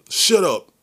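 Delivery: high, loud shout of shut up; angry shout. Retold or imitated. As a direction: cut him off with a shout. Uncle snaps at the man.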